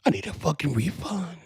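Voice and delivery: high, indignant refund demand; angry fan. Retold or imitated. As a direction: yell for a refund. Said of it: "I'm gonna goddamn say".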